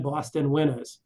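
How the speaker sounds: put-on light Boston accent on winters. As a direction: drop the r, Boston style. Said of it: "Boston accent?".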